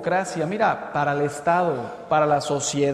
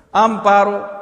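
loud raised shout; calling out; 4 semitones higher, 8 dB louder than usual. Acted. Husband still walking, calling his wife, shouting. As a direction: holler the name, pitched up. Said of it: "abre la puerta y grita".

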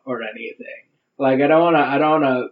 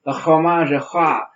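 mock Frenchman; 2 semitones higher than usual. Mock French food lover.

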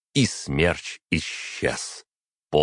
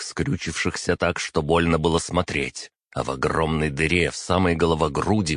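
usual speaking voice

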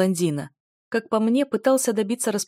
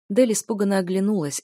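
plain reading voice

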